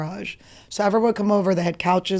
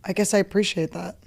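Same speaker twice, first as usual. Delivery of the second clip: resigned whisper; 4 dB quieter than usual. Retold or imitated. Grudging acceptance of mom's honesty.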